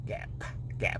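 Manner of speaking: practicing gap with numb lips; sounding out gap through numbness. Real, not acted. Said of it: "Try to say gap with numb lips".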